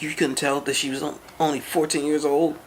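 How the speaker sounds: half-hearted yell of disbelief; imitating a yell. Angry father yelling at the teen driver, mock yell. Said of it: "And then the guy was yelling".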